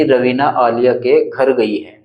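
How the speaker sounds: slow, clear full sentence with घर put back; slow, clear demo of the corrected sentence; corrected reading. Shown as a demonstration. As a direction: read the fixed sentence out to show it now makes sense. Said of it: "ऐसे बोलना चाह रहा था वाक्य में".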